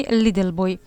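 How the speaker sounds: put-on little boy said as "liddle boy"; American T as D. Shown as a demonstration. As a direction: turn the T in little into a D.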